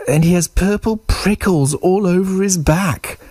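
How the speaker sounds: high mouse voice, telling a tall tale; little mouse. Acted. Mouse invents a monster to scare Snake, high mouse voice.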